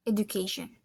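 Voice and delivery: education in a lightly British accent. Shown as a demonstration. Student compares accents, British-style education. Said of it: "in British accent, it is".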